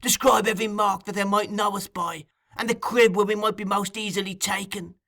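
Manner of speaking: put-on high-pitched, intense old schemer working up to fury; Fagin, raging. A narrator's reading. Fagin laying out betrayal to Sikes, high and incensed. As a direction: build an angry case in a high voice. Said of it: "his eyes flashing with rage".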